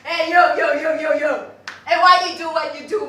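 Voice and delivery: loud demanding call; loud demand to the keeper. Retold or imitated. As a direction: hail him and demand an answer. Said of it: "I demand of him".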